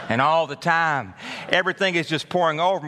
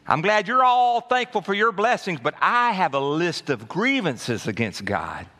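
sarcastic complaint; 3 semitones higher than usual. Retold or imitated. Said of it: "you're thinking".

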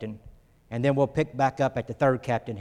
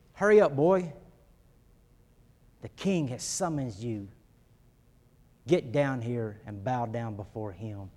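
harsh command; 2 semitones lower than usual. Retold or imitated. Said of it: "It's almost like he's saying".

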